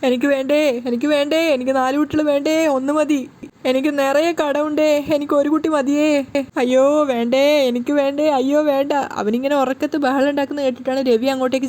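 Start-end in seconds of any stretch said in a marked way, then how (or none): 0.0-8.9 wailing in sleep. Acted. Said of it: "Sachi ഇങ്ങനെ നിലവിളിച്ചുകൊണ്ടാണ്".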